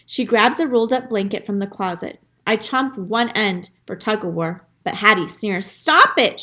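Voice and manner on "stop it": sharp yell, higher and louder. Acted. Girl yelling at her dog to stop, sharp. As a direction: snap it at the dog, loud. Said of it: "she yells again".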